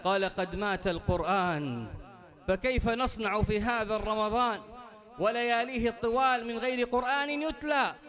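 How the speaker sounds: quick, lively Arabic preaching narration; fast sermon storytelling. Acted. Preacher telling the court story to the congregation, fast and lively. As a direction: race through the tale like a preacher.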